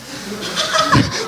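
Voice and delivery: a burst of high, breathy laughter. Real, not acted. A preacher laughing at his own retort to a woman.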